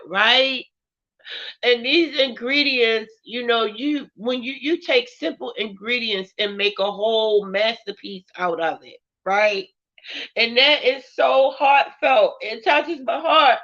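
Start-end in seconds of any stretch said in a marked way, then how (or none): none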